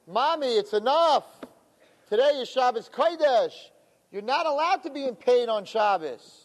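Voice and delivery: gently acted plea from a son; pleading son. Son urges crying mother to stop.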